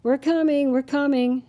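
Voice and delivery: bright smiling reassurance, repeated; said with a smile. A narrator's reading. Wife answers husband cheerfully, smiling. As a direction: smile through the words. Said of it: "his wife Patty said with a smile".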